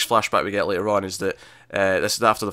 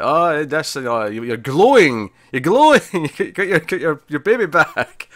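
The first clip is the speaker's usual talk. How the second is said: mock gushing, higher and louder, with a laugh breaking through; gushing wives; 4 semitones higher, 5 dB louder than usual. Wives fawning over Serena, hammed-up gushing. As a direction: ham up the fawning wives cooing over the baby. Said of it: "and they're all like".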